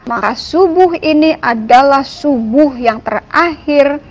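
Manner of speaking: retold annoyance. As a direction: confront God, fed up, in a retold prayer. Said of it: "dengan kesel nih, saya kesel banget". (menirukan doa dengan nada kesal)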